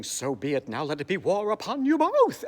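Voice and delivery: hammed-up operatic threat; menacing Phantom. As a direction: declare war theatrically. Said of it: "Ends with the Phantom saying".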